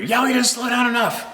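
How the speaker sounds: angry canoe guy, hammed up; mock angry stranger. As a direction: imitate the irate canoeist complaining.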